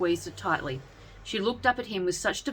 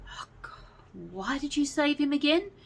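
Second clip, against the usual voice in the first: deadpan; 9 semitones higher than usual. A narrator's reading. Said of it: "Betty deadpanned".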